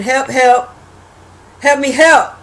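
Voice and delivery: half-hearted cry for help; mock screaming for help. Viewer imagining herself captured, mock screaming for help. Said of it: "I would have been screaming".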